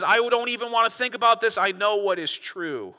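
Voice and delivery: loud, high brush-off slowing to a firm finish; closed-minded mock refusal. The stubborn side refusing to think, dismissive. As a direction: refuse to hear it, hammed up.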